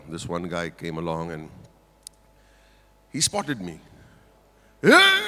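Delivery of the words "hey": high, loud excited shout; excited fan call. Retold or imitated. Fan on the plane spotting his idol, excited yell. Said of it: "He got damn excited".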